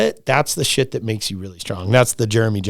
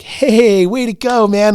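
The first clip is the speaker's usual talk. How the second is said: higher, louder congratulation; cheering greeting; 9 semitones higher, 4 dB louder, slower than usual. Retold or imitated. Guide greets arriving friends at the top, cheering. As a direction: cheer them in as they arrive.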